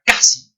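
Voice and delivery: "casi" with a high, punched first syllable; upward push. Shown as a demonstration. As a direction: lift "casi" up sharply on the hard k. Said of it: "va para arriba".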